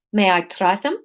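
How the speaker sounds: a hint of South African; lightly voiced South African customer; light South African accent. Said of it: "we can do Aleph as South African".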